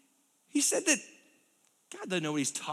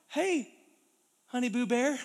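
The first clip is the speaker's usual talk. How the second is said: lightly raised, coaxing call to Adam; sweet-talking Eve; 2 semitones higher than usual. Acted. Eve sweet-talking Adam over to the apple. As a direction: coax him sweetly, honey-voiced.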